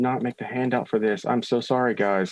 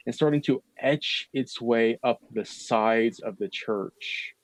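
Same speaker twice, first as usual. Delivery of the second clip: measured, drawn-out scene setting; game master narration; slower than usual. A narrator's reading. Game master describes fog climbing the church, measured narration. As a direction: paint the creeping fog slowly.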